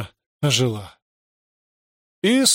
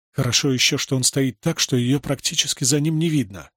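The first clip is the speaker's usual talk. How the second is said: usual speaking voice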